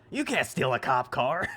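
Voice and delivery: laughing through a bad line; mock cheesy delivery, laughing; bad acting. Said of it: "What's worse".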